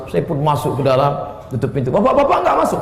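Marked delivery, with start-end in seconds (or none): 1.9-2.8 puzzled question. Retold or imitated. His puzzled question, retold.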